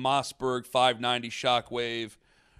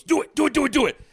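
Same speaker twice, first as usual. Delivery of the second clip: high, excited chant; egging on; 12 semitones higher, 5 dB louder, faster than usual. Retold or imitated. Friend in the car egging the driver on, high excited chant. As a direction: goad him on, high and urgent.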